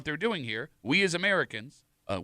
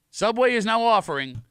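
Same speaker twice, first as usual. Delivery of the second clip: slow, high, drawn-out big reveal; dramatic announcement; 7 semitones higher, 4 dB louder, slower than usual. Real, not acted. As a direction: announce it grandly, stretching out the product name. Big reveal of new product.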